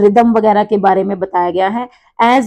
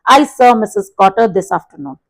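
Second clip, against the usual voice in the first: a little extra pressure on "Missus Cotter"; slow model sentence, lightly pressing "Missus Cotter"; stress on Missus Cotter; 3 dB louder, much slower than usual. Shown as a demonstration. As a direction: lean gently on "Missus Cotter", falling at the end. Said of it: "मैंने मिसेस कॉटर के ऊपर थोड़ा सा pressure दिया".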